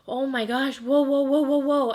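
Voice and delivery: replaying a sudden freak-out to Glenn; startled alarm. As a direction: yelp it out as the rush hits. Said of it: "I told Glenn, I was like".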